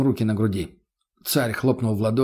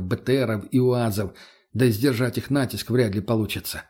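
plain reading voice

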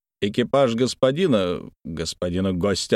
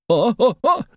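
high, loud exclamation; high loud scandalised oh-oh-oh; mock outrage; 14 semitones higher, 4 dB louder than usual. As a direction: gasp at the cheek. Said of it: "пробормотал".

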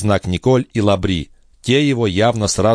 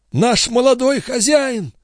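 high, slow, joyful exclamation; joyful grumble; slower than usual. A narrator's reading. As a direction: draw it out high with delight. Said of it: "с радостью в голосе проворчал Лабри". (радостно, нараспев)

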